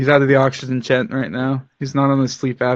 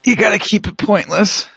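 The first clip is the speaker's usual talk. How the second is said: hyped announcer, a bit higher; 7 semitones higher than usual. Shown as a demonstration. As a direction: boom it out like a fighting game announcer. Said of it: "Announcer voice".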